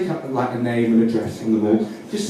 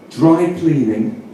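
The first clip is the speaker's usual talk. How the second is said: drawn out, like reading a sign; slow sign reading; much slower than usual. Shown as a demonstration. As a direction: spell it out slowly. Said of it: "underneath it says".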